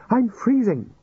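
high whiny complaint; whining old wizard. Acted. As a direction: whine about the cold. Chair complains of cold.

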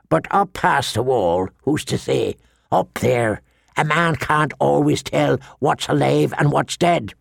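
lightly voiced old black brother; a hint of rough, dour warning; wary old Yoren. Black brother telling maester of the wild north, wary.

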